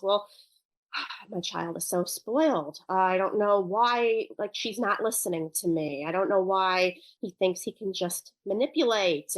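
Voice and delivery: mildly fed-up parent with a sigh; exasperated parent. Acted. Parent thinking to themselves about a child, mildly exasperated. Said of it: "their blood might be boiling a little bit".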